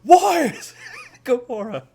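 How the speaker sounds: high-pitched, loud silly character voice; hammed-up squeaky impression, breaking into a laugh; comic high voice cracking into laughter; squeaky mock character. Mimicking a character's questions.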